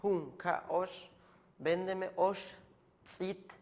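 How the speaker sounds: véndeme osh said high and slow, like a shopper; mock buyer. Shown as a demonstration. Teacher plays a customer at the shop, slow and high. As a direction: play the customer asking to buy.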